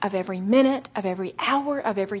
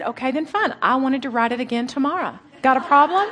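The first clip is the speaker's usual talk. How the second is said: God's playful challenge. Retold or imitated. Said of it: "it was like he said".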